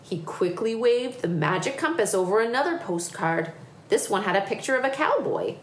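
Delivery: lively picture-book reading; story narration. A narrator's reading. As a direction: tell it to children with building excitement. Reads picture book aloud.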